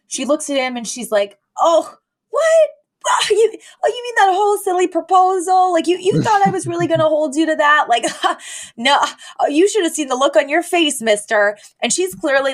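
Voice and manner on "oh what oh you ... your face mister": mock breezy laugh-off. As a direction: play it like a fake-breezy brush-off. Fran fakes laughing it off.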